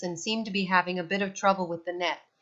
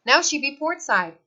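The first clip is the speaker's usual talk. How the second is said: captain yelling; 7 semitones higher, 6 dB louder than usual. A narrator's reading. Captain Igor calling side.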